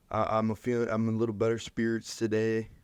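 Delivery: lightly put-on Southern accent. Host quoting a coach's remarks, in a slight unintended Southern accent. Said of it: "I invoked a Southern accent".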